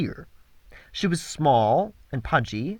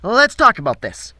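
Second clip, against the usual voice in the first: pleading thug; 7 semitones higher, 6 dB louder than usual. Acted.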